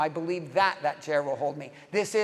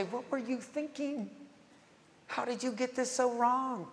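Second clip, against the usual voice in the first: scolding; 6 semitones higher, 7 dB quieter than usual. Retold or imitated. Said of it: "He does not show up and say".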